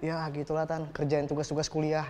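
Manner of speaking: low, soft, evasive mumble; subdued, embarrassed low reply; sheepish boyfriend. Acted. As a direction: answer the aunt meekly, pitch dropped right down. Boyfriend sheepishly admits no real job.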